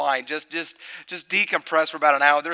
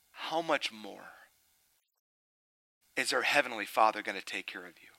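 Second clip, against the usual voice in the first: soft, breathy whisper with a long pause before it; hushed whisper; 5 semitones lower, 9 dB quieter than usual. Real, not acted. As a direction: drop to a whisper as if telling a secret. Rhetorical climax, hushed.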